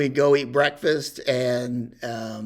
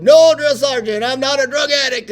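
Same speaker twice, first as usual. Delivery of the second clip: much higher, louder answer at attention; recruit shouting back; 12 semitones higher, 9 dB louder than usual. Retold or imitated. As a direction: yell it back like a scared private. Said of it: "And I said".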